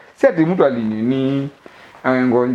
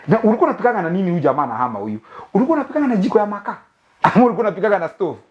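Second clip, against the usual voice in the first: nosy gossip; 3 semitones higher, faster than usual. Retold or imitated. Nosy neighbour's questions mimicked.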